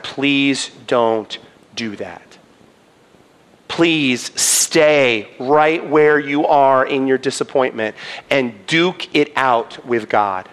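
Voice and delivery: slow, hushed plea; earnest pleading. Real, not acted. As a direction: beg them gently and slowly. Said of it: "I am begging you".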